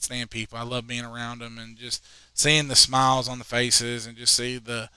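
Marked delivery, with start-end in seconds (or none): 4.2-4.9 slow, mock-sincere praise; sarcastic. Substitute teacher teasing his students, dry sarcasm. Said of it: "I'm really joking".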